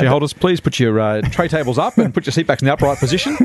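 flight attendant. Pretend. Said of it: "Flight Centre hit this turbulence".

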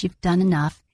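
firm priestly pronouncement, lightly imitated; big booming voice. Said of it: "he said it in his big booming voice".

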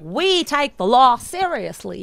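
attempted New Zealand accent. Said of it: "Why does the speaker's accent sound Texan?".

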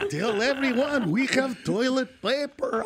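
put-on slow, drawn-out Jewish shopkeeper accent; Jewish guy accent. Store owner wanting everyone told about his stock, Jewish accent. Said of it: "I just did a Jewish guy".

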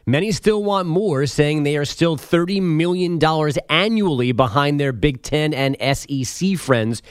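brisk, steady radio headline delivery; sports news read. Acted. Update anchor giving listeners college conference headlines, news read.

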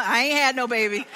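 laughing concession. Real, not acted. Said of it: "all right, Nana".

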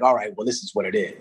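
villain voice. Shown as a demonstration. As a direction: drop into the bad guy. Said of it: "everybody got the villain voice".

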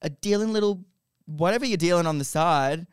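angry rant. Retold or imitated. Retold angry rant at boyfriend.

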